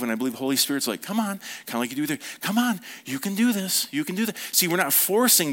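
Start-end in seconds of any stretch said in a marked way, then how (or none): 1.0-1.4 higher, gentle coaxing; encouraging. Acted. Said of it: "but we're encouraging them". 2.4-4.3 higher coaxing cheer; encouraging. Acted. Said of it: "but we're encouraging them".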